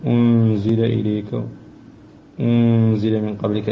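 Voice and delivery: أنزل with a nasal, hidden nun before the z. Shown as a demonstration. Teacher pointing out the hidden nun to the student. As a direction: soften the nun of أنزل into the zay. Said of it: "النون ساكنة قبل الزاء حكم الإخفاء".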